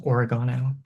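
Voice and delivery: oregano said the British way, stress on the third syllable, ori-GAH-no. Shown as a demonstration. Telling the audience how the British say it, oregano as ori-GAH-no. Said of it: "the British say it".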